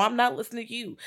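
high mock stubbornness; mock arguing. Podcaster voicing the other arguer, high mock squabble. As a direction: imitate the other side of a squabble. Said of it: "fighting and arguing".

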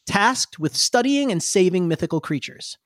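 measured fantasy-lore narration; storyteller voice with deliberate dramatic pauses; full narrator voice. Acted. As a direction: tell it like an epic prologue, phrase by phrase. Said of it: "my full narrator voice on".

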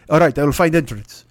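loud, rough Russian-driver impression; mock Russian accent. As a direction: imitate a Russian driver, badly. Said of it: "I don't do accents".

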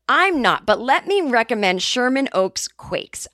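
slow, earnest product pitch; ad read. Shown as a demonstration. Retrying the oats ad, slow earnest pitch. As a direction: recommend it like a TV spokesperson. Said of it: "can I try that one again".

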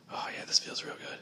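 soft hushed whisper during a pretend hug. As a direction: breathe it softly in his ear.

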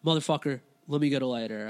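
lightly voiced irritated stranger; impatient demand. Bleeding man insists on a lighter, mildly impatient. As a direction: press the request with mock impatience.

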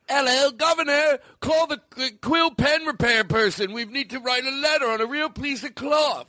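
high-pitched fake Liverpool accent; mock Liverpool accent. Host teasing Liverpool listeners, high mock Liverpool accent. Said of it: "affectionately make fun of our listeners from Liverpool".

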